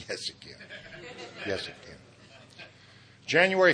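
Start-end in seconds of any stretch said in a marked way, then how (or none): 0.1-2.0 soft laughing insistence. Real, not acted.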